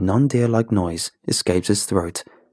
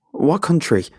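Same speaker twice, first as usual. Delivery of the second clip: demanding; 8 semitones higher than usual. A narrator's reading. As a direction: bark the question. Narrator interrogates hiker.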